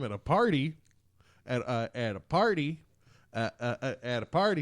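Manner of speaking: words jump back like a skipping CD; skipping record. Pretend. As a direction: stutter it like a scratched disc. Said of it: "sorry, the C D skipped".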